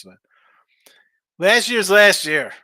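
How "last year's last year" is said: dismissive whisper. Acted. Dismissing a caller's stat.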